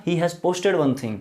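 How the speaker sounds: very slow, word-by-word English; slow model sentence. Shown as a demonstration. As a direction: drag each word out for students. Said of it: "तो मैं बोलूँगा".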